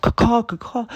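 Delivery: very high, loud squawk; hawk cry. Retold or imitated. The attacking hawk, a very high, loud squawk. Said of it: "attacked by a fucking hawk".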